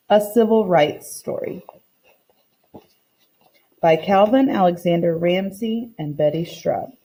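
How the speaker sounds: reading a picture book aloud to the class, voicing the characters lightly; story narration. Teacher reading a story to her class, storytime narration. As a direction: read it like storytime for children.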